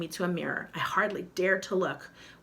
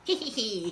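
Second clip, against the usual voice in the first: witch cackle; 3 semitones higher than usual. Acted. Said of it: "cackled the witch".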